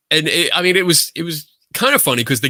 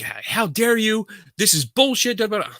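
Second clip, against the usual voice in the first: retold shrieky outrage; mock screaming; 8 semitones higher than usual. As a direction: mimic her indignant rant without real volume. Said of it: "she's still screaming at me".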